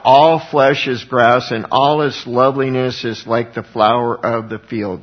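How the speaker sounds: loud, emphatic scripture proclamation; crying out. Acted. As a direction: proclaim the verse loudly, then ease off. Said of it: "cry this out".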